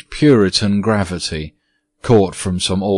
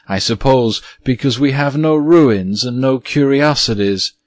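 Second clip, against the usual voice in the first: satirical; 5 semitones higher than usual. Acted. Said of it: "said Virginia satirically".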